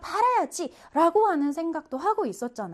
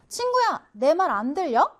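calling out; 3 semitones higher, 3 dB louder than usual. Acted. Giraffe calls to the silent zebra, calling out. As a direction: call out to someone who isn't answering.

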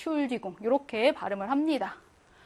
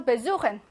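베수헨 stressed on 수; light 베, then lean into 수; stress after prefix. Shown as a demonstration. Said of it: "배 강세 못 받아서".

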